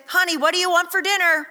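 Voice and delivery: casual spouse question; asking spouse about dinner. Retold or imitated. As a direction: playfully ask your partner what's for dinner. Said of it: "we do this when we say".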